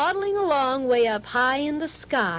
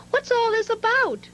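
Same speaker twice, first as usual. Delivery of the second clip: mild shouting crowd; 11 semitones higher than usual. A narrator's reading. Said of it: "the people came shouting".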